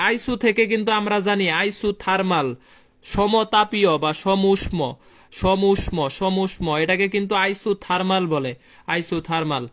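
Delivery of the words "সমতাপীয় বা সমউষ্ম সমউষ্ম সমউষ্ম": very slow, word-by-word dictation. Shown as a demonstration. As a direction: draw each term out so they can write it. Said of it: "dictating terms to class".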